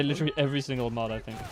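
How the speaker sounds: normal talking voice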